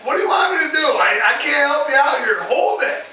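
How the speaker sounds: mock exasperation; exasperated protest. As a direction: push back on an impossible request. Acting his helpless reply to wife.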